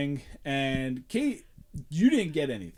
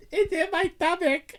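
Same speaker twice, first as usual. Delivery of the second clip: high, squeaky mock voice; mocking Kate; 3 dB louder than usual. Teasing his friend Kate with a high squeaky voice. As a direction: squeak it like a smug little girl. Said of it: "is not what I sound like".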